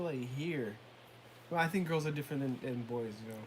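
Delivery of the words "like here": "here" dropped down, falling. Retold or imitated. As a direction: sink to the bottom level on HERE. Contrasts two emotional levels.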